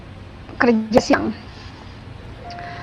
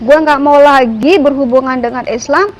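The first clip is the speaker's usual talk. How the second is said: retold defiant outburst, mildly raised voice; somewhat loud, rude. Man rudely renouncing his faith aloud to God, somewhat loud and rough. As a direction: recount a rough rant with a touch of force. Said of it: "ngomong agak keras, ngomong agak kasar".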